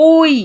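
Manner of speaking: ওই stretched into a long glide; long vowel. Shown as a demonstration. Teacher listing long vowels for students, ওই drawn out. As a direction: draw out ওই. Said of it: "ওই আমরা উচ্চারণ করছি".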